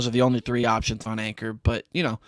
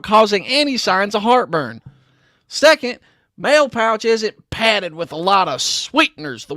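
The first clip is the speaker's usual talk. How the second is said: put-on high, theatrical old-timey announcer; 7 semitones higher, 6 dB louder than usual. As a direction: read it like a vintage tobacco ad. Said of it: "should I do an old-timey voice".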